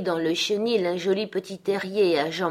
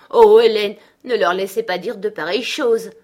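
loud, distressed exclamation; very troubled; 3 semitones higher, 10 dB louder than usual. A narrator's reading. Girl begs her nurse to stop such talk, troubled. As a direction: burst out, pleading in dismay. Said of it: "poursuivit-elle très troublée".

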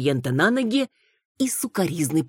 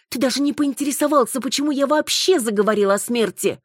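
hysterical notes; 7 semitones higher than usual. Acted. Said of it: "явственно слышались истерические нотки".

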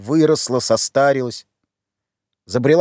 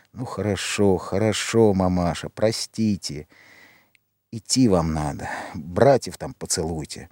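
resigned and quiet; 7 semitones lower, 6 dB quieter than usual. Acted. Сын сдаётся и прощается.

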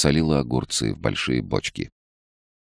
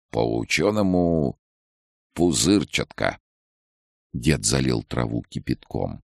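put-on calm old man; 2 semitones higher than usual. A narrator's reading. Old healer Yefim speaks.

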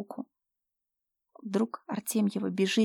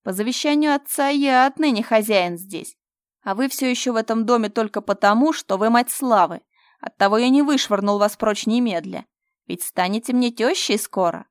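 arrogant; 3 semitones higher, 9 dB louder than usual. Acted. Fyodor proclaims himself master, loud and arrogant. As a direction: lord it over her.

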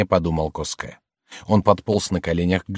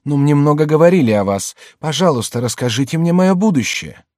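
pleading woman; 8 semitones higher, 5 dB louder than usual. A narrator's reading. Woman asks the fortune teller.

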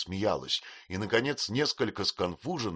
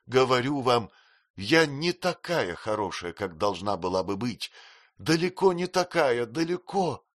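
higher, tearful insistence; sobbing protest; 5 semitones higher, 4 dB louder than usual. Acted. Girl insisting she is unworthy, higher and sobbing. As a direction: insist through sobs, pitch climbing. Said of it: "качая головой и рыдая".

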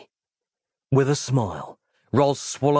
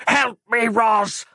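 high, pained squeal for help; squealing dying man; 11 semitones higher, 4 dB louder, slower than usual. Acted. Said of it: "squealed the dying Randy Man".

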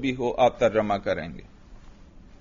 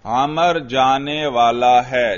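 slow model translation; slower than usual. Shown as a demonstration. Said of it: "ترجمہ کیجئے".

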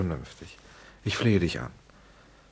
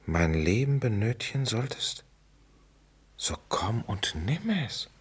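slow, fading into a whisper; awed whisper. Acted. Writer rereading the line from the book, slowly whispering. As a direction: savour the line as it sinks in. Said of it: "Seite hunderteinundzwanzig".

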